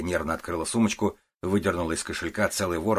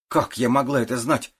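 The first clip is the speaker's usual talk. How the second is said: indignant; 6 semitones higher, 4 dB louder than usual. A narrator's reading. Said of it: "возмутилась Лариса искренне".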